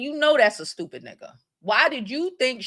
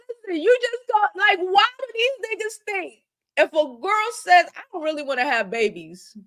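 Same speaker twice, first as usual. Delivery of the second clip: mock girlfriend scolding in broken English; imitating her broken English; 4 semitones higher than usual. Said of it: "in her broken English".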